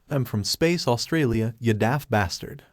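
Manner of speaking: lightly voiced Australian accent, matter-of-fact; a hint of Australian twang on Space Australia. Jace answering Metal Bat's jab, light Australian accent. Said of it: "what's up with your accent?".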